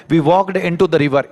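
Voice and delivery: slow, word by word; slow dictation. Shown as a demonstration. Teacher dictating the example sentence to students, slow. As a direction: spell it out slowly so students can follow. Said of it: "teacher reads example sentence".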